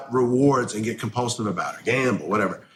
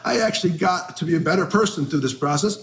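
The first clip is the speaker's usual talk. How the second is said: self-mocking, sing-song pitched way up; smug old timer; 9 semitones higher than usual. Sober man mocking himself as a smug old timer, high sing-song. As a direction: play the self-satisfied sober guy, voice lifted high. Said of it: "So now I'm that asshole who's like".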